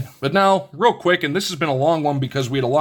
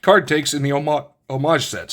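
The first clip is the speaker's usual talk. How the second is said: talking through hiccups; halting words broken by hiccups. Real, not acted. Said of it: "I've got the hiccups".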